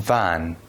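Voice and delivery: "ون" with a buzzing, voiced v at the start. Shown as a demonstration. Teacher has students feel the difference, voiced v in "ون". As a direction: say "ون" with the first sound voiced, as v.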